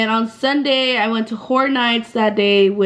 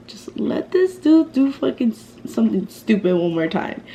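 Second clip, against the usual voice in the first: half-whispered aside to self; muttered thought. Retold or imitated. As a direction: act out a private thought under your breath. Acted private thought.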